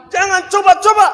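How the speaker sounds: full, high shouted warning. Shown as a demonstration. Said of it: "Agak keras lagi". (teriakan paling keras)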